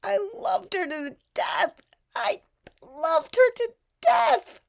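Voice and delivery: mocking Gypsy. Host mocking Gypsy's claim to love her mother, high sarcastic parroting.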